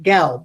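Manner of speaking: "gel" said alone with a short vowel; closed syllable demo. Shown as a demonstration. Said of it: "the second one is closed. It's going".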